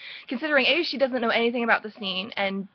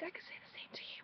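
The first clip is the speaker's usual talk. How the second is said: voiceless whispered reply; hushed, fully whispered quote; imitated whisper; 23 dB quieter, faster than usual. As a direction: whisper it very softly, as the character. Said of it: "And they're whispering".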